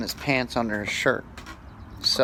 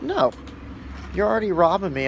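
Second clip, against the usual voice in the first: retold angry shout; 7 semitones higher than usual. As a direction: snap back at the robber in a mock yell. Refusing the robber, retold argument.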